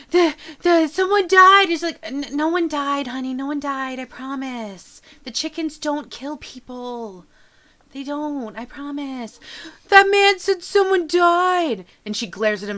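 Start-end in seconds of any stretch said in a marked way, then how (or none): 0.1-1.7 put-on loud, high sobbing child; crying kid. Upset kid bawling to his mother, high and loud. 2.0-9.4 soothing mother. Acted. Mother comforting crying son. 9.9-11.8 put-on loud, high sobbing child; crying kid. Upset kid bawling to his mother, high and loud.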